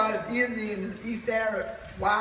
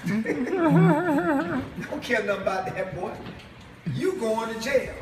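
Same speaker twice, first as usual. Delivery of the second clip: slow, higher, laughing through the words; laughing taunt; 4 semitones higher, slower than usual. Real, not acted. Preacher taunts the jailed brother, laughing slowly. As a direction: gloat with a chuckle.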